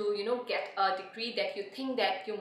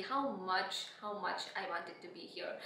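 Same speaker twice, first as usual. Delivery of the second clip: emotional; 2 semitones lower, 9 dB quieter than usual. Real, not acted. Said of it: "I'm so sorry if I got a little bit emotional".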